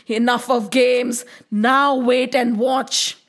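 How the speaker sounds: slow, drawn-out warning, lightly acted; threatening serpent. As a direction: stretch each word as a mild threat. Serpent threatens Krishna in story.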